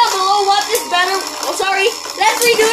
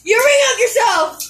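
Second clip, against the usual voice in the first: shouted at the arena; yelling at a horse race; 4 semitones higher than usual. Real, not acted. Cheering at spinning tops.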